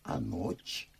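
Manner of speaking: whisper, doubtful; hushed question. Acted. Master whispering so as not to wake his daughter.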